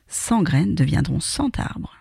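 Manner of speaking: slow, smiling triumph; smiling slow, proud little vow; victorious smile. Acted. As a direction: savour the promise with a smile. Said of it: "sourit-elle victorieusement".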